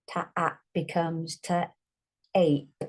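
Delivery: "Ta-ap" drawn out, then "ta-ape" with a long A; slow sounding out, short a then long a; stretched phonics demo. Shown as a demonstration. Teacher sounding out words for a child. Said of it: "change it to a long A sound".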